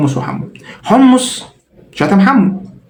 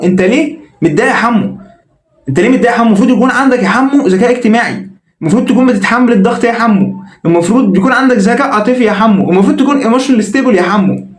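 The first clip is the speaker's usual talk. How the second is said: higher, preachy mock sympathy; mock lecturing; 6 semitones higher than usual. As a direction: lecture him condescendingly, drawing out يا حمو. Ayman lecturing the insulted Hamo. (نصيحة ساخرة متعالية بصوت أعلى)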